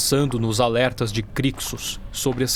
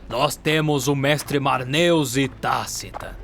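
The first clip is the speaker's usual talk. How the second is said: stern address; 4 semitones higher than usual. Acted. Mentor addresses failing aspirants.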